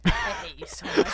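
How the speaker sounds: high, laughing mock exasperation; mock outrage. Real, not acted. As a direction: pretend to be outraged while laughing.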